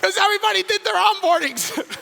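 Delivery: very high, loud hype yell; exultant, full-voiced stage holler; triumphant shout. Real, not acted. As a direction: shout it to the crowd in celebration. Hyping the giveaway to the crowd.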